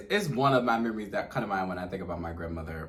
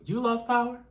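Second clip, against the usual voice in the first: put-on much higher, astonished old-lady voice; grandma's question; 4 dB louder than usual. Grandma asking granddaughter about the power, high incredulous voice. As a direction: ask it like a disbelieving grandma. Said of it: "And she was like".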